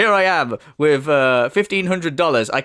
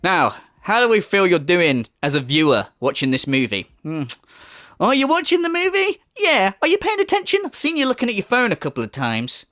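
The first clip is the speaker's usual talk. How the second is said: mock evaluator. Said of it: "came on the screen and went".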